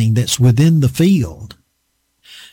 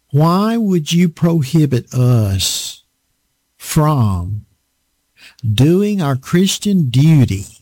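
slow, earnest retold plea; gentle plea. Brother Martin gently pleading with his guest, slow and sincere. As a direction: quote him slowly and sincerely. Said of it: "this is what he said".

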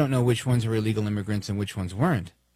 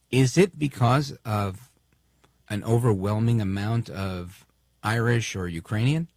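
slow, snide rhetorical question; slower than usual. Real, not acted. Commentator needling a senator's claim, snide and slow. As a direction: drag it out with mock innocence. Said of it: "I'm being snide".

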